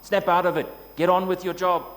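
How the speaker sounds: a mock-stern taskmaster telling people to snap out of it; hard taskmaster. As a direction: snap at them like a hard boss. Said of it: "a hard taskmaster who just says".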